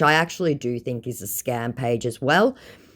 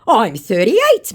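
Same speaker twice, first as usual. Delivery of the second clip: slow, higher and louder, huffy; mock indignant scammer; 10 semitones higher, 9 dB louder, slower than usual. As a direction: play the offended scammer, drawn out. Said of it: "came the indignant response".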